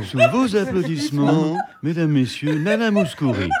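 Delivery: showman announcer. Pretend. Mock stage introduction of singer.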